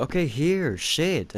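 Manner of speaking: mock a babysitter giving up; imitated fed-up babysitter. Babysitter handing the crying baby a toy, mock fed-up. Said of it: "she would get so fed up with me".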